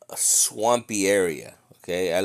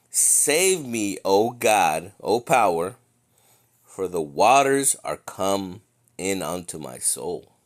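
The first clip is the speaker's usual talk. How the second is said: slow solemn psalm reading; scripture reading; 3 dB louder than usual. Acted. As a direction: read the psalm like a preacher. Reads psalm aloud in sermon.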